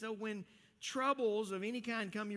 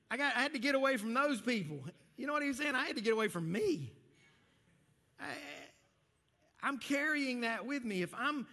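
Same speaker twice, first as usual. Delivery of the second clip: loud preaching; 5 semitones higher, 4 dB louder than usual. Acted.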